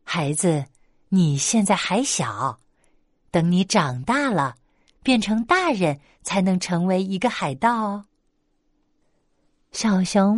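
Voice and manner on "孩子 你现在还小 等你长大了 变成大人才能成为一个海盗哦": a gentle mother bear explaining to her cub. Acted. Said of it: "可是熊妈妈告诉他".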